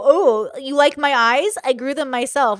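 slow, smug mock drawl on oh; smart aleck. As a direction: play the know-it-all mocking a compliment. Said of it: "a smart aleck and go".

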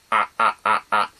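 "あ" pushed from deep in the throat; throaty voice. Shown as a demonstration. Teacher shows viewers the throat voice. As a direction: show the back-of-throat "あ" sound. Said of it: "こんな感じの声".

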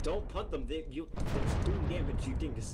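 loud exasperated scolding. Real, not acted. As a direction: tell him off, frustrated. Scolding teammate for punting.

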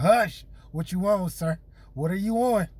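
Hush, what you on, shouted across the room; calling out. Real, not acted. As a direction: hype him up to the mic. Judge calls out next battler.

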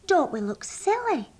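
high, swooping question; Barbara the sheep. A narrator's reading. Striped sheep asks her friend about their look, high-pitched. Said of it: "said Barbara the sheep".

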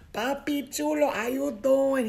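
loud, high flirty call; hammed-up flirting. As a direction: coo it up high, playfully overdone. Replays her flirting, exaggerated.

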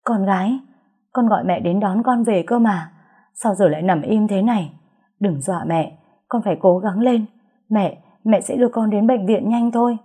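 a terrified mother begging her hurt daughter; frantic mother. Acted. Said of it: "tiếng hét thất thanh của mẹ Tâm".

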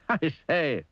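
high, chuckling exclamation; laughed. A narrator's reading. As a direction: say it through a jolly little laugh. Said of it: "laughed Mister Happy".

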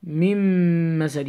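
من مسد joined by a long m, no n; ignored noon. Shown as a demonstration. Teacher shows the noon dropped, من مسد with held m. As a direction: merge من into the m of مسد. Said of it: "You ignore the noon".

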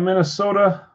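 a hint of a Minnesota accent; slight Minnesota accent. Real, not acted. Host calling out Chris's team, slight Minnesota accent. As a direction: let a little Minnesota accent slip in. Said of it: "a Minnesota accent".

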